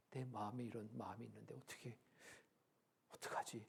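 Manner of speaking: soft, retreating retold worry; humbled dismay. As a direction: act out quietly giving in, voice dropping. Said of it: "거기에 딱 굴복하셔요". (기죽어 나직이 걱정하는 흉내)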